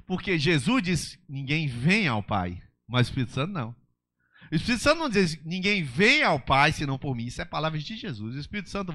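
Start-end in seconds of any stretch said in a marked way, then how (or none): 0.1-7.3 fiery preaching. Acted. Pastor proclaiming Jesus' words to the church, loud.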